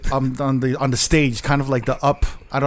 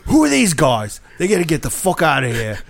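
lightly imitated British club owner; a touch of irate British boss; British accent. British club owner on a tantrum spots the guests, light British accent. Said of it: "You have to do the accent".

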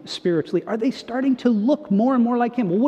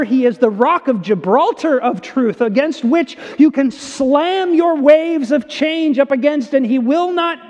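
impassioned preaching; 3 semitones higher than usual. Real, not acted. Pastor proclaiming Jesus as unchanging truth, impassioned preaching. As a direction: drive it home, climbing in pitch and force. Preaches at rising full force.

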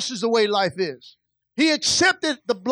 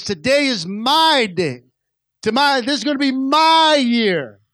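rising, louder preached declaration; excited declaration; 4 dB louder than usual. Acted. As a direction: proclaim it like a turning point. Blind man's declaration, preached.

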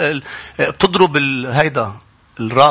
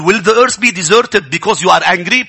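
slow emphatic reading; 4 semitones higher, 3 dB louder, much slower than usual. Acted. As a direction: read every word very slowly. Reads English verse slowly. (قراءة بطيئة جدًا ومشددة)

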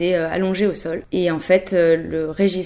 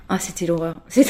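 nervous laugh; faster than usual. Real, not acted. Laughs while recalling horror.

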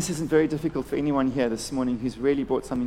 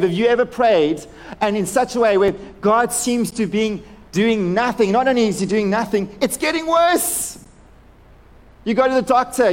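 raised, insistent preacher's voice; urgent sermon delivery, pitched up; impassioned preaching; 6 semitones higher, 4 dB louder than usual. Real, not acted. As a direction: drive the point home to the congregation. Preaches with force.

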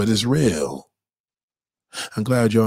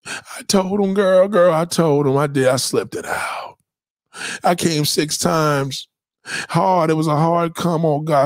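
put-on higher, excited girl-talk voice; excited girlfriend; 4 semitones higher than usual. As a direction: spill the news breathlessly. Woman confessing to friend.

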